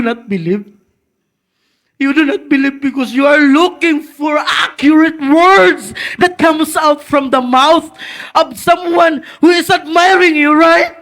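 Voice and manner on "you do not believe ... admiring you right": tearful plea; pressing through tears; crying. Real, not acted. Preacher urging congregation, crying out. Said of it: "nagahilak diri nga preacher".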